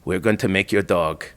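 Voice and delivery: low, soft, deliberate scheming; conspiratorial French official. Retold or imitated. French official proposes a fake ID for the dog, conspiratorial. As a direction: imitate an official offering a secret fix, hushed. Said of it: "is French, though".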